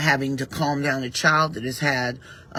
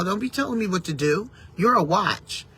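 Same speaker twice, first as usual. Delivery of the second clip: mock irritated retort; 3 semitones higher than usual. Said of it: "I would get irritated".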